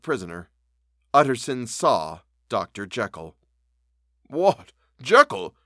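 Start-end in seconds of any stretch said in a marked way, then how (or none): 4.3-5.5 higher, louder startled call; a startled call to the window; surprised cry. A narrator's reading. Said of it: "he cried".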